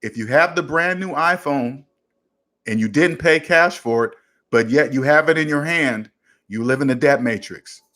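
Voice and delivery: slow it down slightly so it sinks in. Shown as a demonstration. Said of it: "Let me say it a little slower".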